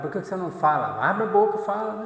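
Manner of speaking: loud, high exasperated outburst; retold anger. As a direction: re-enact an impatient scolding, climbing in pitch and volume. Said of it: "Aí eu fiquei com raiva dela". (bronca irritada, alta e aguda)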